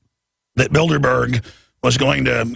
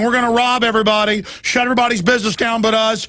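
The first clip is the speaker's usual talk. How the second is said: cartoon greedy tycoon, pitched way up; gloating corporate villain; 8 semitones higher than usual. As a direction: ham up the smug executives high-fiving. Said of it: "corporate leaders going".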